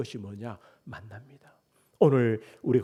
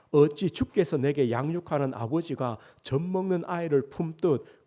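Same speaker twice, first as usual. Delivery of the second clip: scripture reading; 3 dB louder than usual. Acted. Pastor reads Moses' complaint aloud, formal and measured. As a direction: read Moses' prayer aloud to the congregation.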